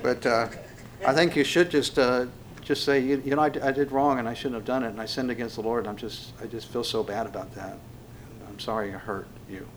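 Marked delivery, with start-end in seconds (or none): 3.0-9.7 subdued apology, fading to very soft; modelled apology. Shown as a demonstration. Preacher showing how to admit wrong, subdued apology.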